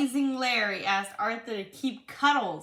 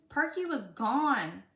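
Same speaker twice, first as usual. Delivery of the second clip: put-on reading a picture book aloud to a child; lively read-aloud for a little one; storybook reading; 2 semitones higher than usual.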